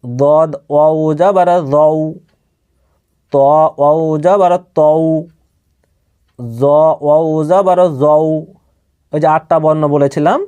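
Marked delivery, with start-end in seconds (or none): 0.0-8.2 slow, even-toned recitation of letters; measured spelling drill. Shown as a demonstration. Teacher models Arabic letter spelling for learners, measured drill. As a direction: recite each syllable evenly, with pauses between.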